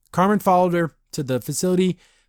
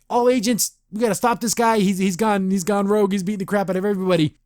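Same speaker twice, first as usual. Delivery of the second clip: higher, urgent call to all agents; urgent alarm call; 6 semitones higher than usual. Retold or imitated. Hologram boss alerts all agents, a raised urgent call.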